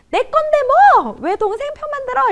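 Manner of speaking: high-pitched indignant protest; angry child. Acted. Older child accusing mother of taking sides, angry. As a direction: protest like a wronged kid, voice way up. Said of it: "이러면서 막 화를 냈어요".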